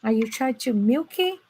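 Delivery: imitating an annoyed doctor snapping at her; upset doctor. Doctor losing patience with the frozen interpreter, mock exasperated. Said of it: "the doctor was so upset and go".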